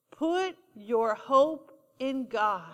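low, slow and soft, like a comfort; a soft, slow reassurance; slow tender answer. Shown as a demonstration. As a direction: offer it gently as the answer. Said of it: "the answer is always".

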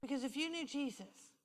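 soft, unhurried retold comfort; tender reassurance. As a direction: reassure her quietly, letting phrases rest. Consoles crying woman in retold talk.

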